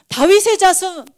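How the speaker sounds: loud, high, drawn-out cry for help; bawling shout. Acted. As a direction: bawl it slowly at full voice, stretching the name. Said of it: "고래고래 소리를 지르는 거예요". (고래고래 길게 외치는 소리)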